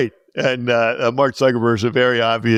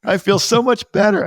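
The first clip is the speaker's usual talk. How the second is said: high, slow, hammed-up relief; mock relief; 12 semitones higher, 4 dB louder than usual. Telling the teacher his relief, high and slow. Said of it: "I said".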